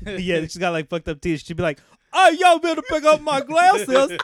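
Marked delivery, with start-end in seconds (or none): 2.1-4.2 high, loud, dragged-out Southern drawl; hammed-up Southern customer, slow and high; mock Southern accent. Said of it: "Are you from the South?".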